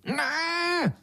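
very high beetle shriek. Acted. The beetle refuses the second verse, high shriek. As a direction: cut the song dead with a shriek. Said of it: "zaječel černý brouk".

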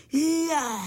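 high, loud gasp of wonder; a crowd marvelling at a new toy; amazed cry. Acted. Children marvelling at the cart, amazed. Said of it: "zvolali všichni s údivem".

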